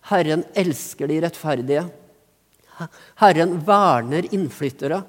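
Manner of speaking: measured, emphatic psalm reading; preacher rereading the psalm with weight; solemn scripture reading. Acted. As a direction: proclaim each line to the congregation.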